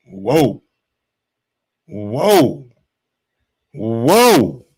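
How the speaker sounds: drawn-out low whoa; a slow, low, stunned "whoa". Real, not acted. Stunned by the quote.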